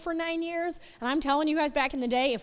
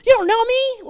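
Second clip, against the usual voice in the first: high, loud bratty yell; hammed-up angry teen shout; mock teen outburst; 10 semitones higher, 9 dB louder than usual. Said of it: "and you're like".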